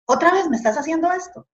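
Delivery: mild retold outcry to God, voice lifted in pitch; retold desperate cry. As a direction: plead upward in disbelief, without shouting. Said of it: "yo le gritaba al Señor".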